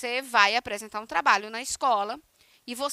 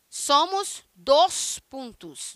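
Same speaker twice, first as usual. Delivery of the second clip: colon introducing itself; 4 dB louder, much slower than usual. Pretend.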